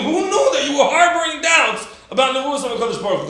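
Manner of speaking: high, loud laughing disbelief; hammed-up scandalized exclamation; mock astonishment. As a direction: chide the doubter with amused shock. Acts scandalized at the doubter.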